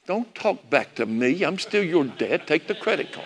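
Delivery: understated fatherly firmness; father's mild scolding. Retold or imitated. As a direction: put him in his place without raising your voice. Dad scolds son, retold.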